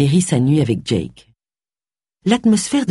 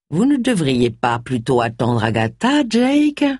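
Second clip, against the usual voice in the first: honeyed, sly question; sweetly needling, rising at the name; sugary insinuation; 2 semitones lower, slower than usual. Acted. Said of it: "insinua Charles d'une voix doucereuse".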